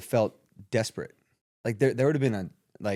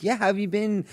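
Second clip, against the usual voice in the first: high-pitched mock Australian caller; imitated Australian accent; 9 semitones higher than usual. Old acquaintance catching up by phone, imitated Australian accent. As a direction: ask in a higher Australian voice. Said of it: "Australian accent".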